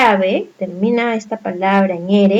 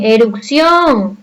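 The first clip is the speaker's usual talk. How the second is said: erupción drawn out slowly, weight on final -ción; stress on last syllable; slower than usual. Shown as a demonstration. Teacher showing pupils where erupción is stressed, final syllable stressed. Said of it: "Cuál es la mayor fuerza de voz".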